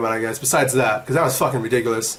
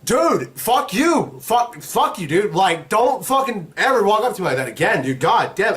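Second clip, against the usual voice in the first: retold telling-off; 5 semitones higher, slower than usual. Retelling his angry parting words.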